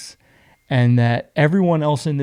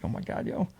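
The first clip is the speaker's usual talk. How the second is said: hushed breathy whisper; whispered aside; 3 semitones lower, 14 dB quieter than usual. Retold or imitated. Recalling his spooked thought on the plane, whispering. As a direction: whisper it like a secret fear.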